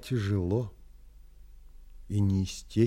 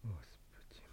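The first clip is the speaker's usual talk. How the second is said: weary sigh; 5 semitones lower, 25 dB quieter than usual. Acted. Narrator alone, disturbed by orgy.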